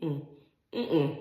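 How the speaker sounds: humming through a mouthful of liquid; closed-mouth hums while swishing; mouthwash swishing. Real, not acted. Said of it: "probably have mouthwash in my mouth".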